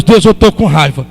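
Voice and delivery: confessing prayer, understated and sincere; spoken prayer. Pretend. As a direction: pour your heart out to God. Voices a prayer to God.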